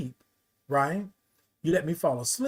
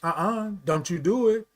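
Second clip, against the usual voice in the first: a lightly voiced motherly nurse, a bit higher; nurse's voice; 5 semitones higher than usual. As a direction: gently scold like a caring nurse. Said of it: "the one nurse would always say".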